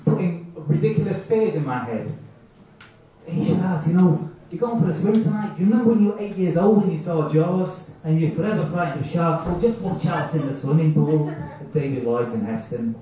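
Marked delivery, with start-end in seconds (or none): 3.3-12.9 slight mock Italian accent; little Italian accent. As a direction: warn with a light Italian lilt. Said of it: "in a little Italian accent".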